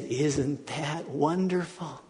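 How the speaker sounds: slow and tender; slow tender father's reply; gentle wonder. Retold or imitated.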